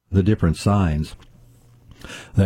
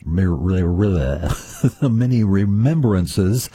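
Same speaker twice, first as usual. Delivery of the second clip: slow, careful enunciation after a stumble; careful retry; much slower than usual. Real, not acted. Host recovers from tripping over the many remembrances, carefully. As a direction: say it slowly to get the tricky word out.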